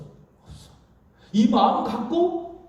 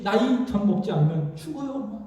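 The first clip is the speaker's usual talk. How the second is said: put-on desperate baby cry; 3 semitones higher than usual. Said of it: "아주 자지러듯이".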